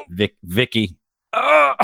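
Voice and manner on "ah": high, drawn-out mock cry; brief play-acted high cry. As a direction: let out a pretend high wail. Mock climax while imagining parents.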